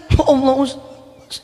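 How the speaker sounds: high, drawn-out tearful plea; hammed-up weepy voice, stretched out; mock crying. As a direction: imitate a man bursting into tears. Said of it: "Ini orang langsung nangis".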